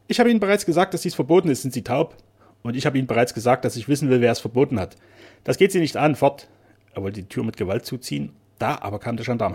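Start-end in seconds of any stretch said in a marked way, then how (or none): 0.1-6.5 loud, higher hostile shouting; gruff refusal. Acted. Keeper yelling at the painter at the door, angry. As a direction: throw the visitor off with anger.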